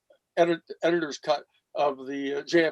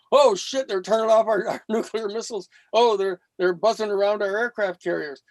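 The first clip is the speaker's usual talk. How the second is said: retelling a panic, pitched up; hammed-up alarm at the missiles; mock alarm; 3 semitones higher than usual. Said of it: "his hair was on fire".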